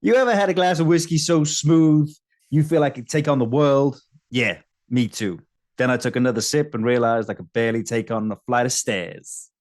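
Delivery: loud opening boast, then ease down to the punchline; Dave Chappelle. Acted. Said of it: "again, poor Chappelle impression".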